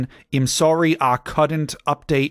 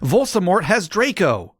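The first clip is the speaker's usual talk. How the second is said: mock shout; 8 semitones higher than usual. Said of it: "we shouted".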